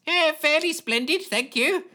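shaking high voice, juddering. A narrator's reading. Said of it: "came the juddering reply".

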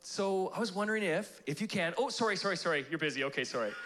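tentative request collapsing into quick apologies; mock-timid, back away as you apologize; passive, apologetic. Canadian afraid of bothering busy God, mock-apologetic. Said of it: "we can be a little bit passive".

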